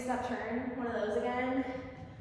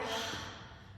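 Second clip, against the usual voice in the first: big sigh; 8 dB quieter than usual. Retold or imitated. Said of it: "he has this big, like, sigh".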